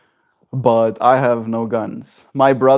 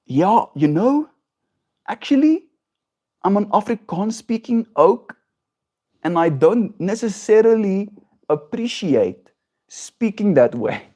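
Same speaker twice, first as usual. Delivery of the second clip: South African accent; 8 semitones higher than usual. Shown as a demonstration. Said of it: "let me put on a South African accent".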